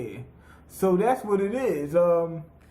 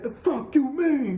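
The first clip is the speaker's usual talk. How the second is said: mock outrage; 6 semitones higher than usual. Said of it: "beside him".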